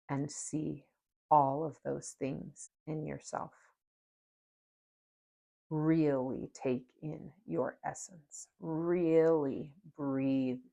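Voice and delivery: slow, calm meditation voice; guided meditation. Acted. Guiding viewers through a mirror meditation, slow and calm. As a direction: ease listeners into looking at themselves, slowly.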